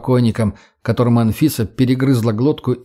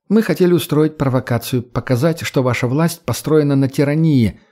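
slightly raised pitch, insistent; lightly voiced earnest young woman; 3 semitones higher than usual. Redhead captive justifying herself to the boy, lightly voiced earnestness. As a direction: explain the cause with conviction.

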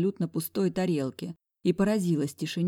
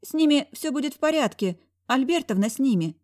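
unsure reassurance; 8 semitones higher, 4 dB louder than usual. A narrator's reading. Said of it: "не очень уверенно успокоила меня зайка".

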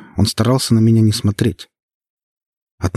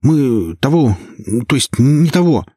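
higher, flustered stammering excuses; nervous stammer; 6 semitones higher than usual. Acted. Lyokha stammers nervously to the boss. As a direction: stumble out a frightened excuse to the boss.

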